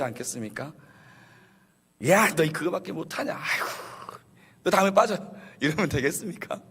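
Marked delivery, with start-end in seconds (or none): 2.1-5.2 higher-pitched exasperated telling-off; playacted reproach with a sigh; mock scolding. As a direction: act fed up with a failing teammate. Acted scolding of failed teammate.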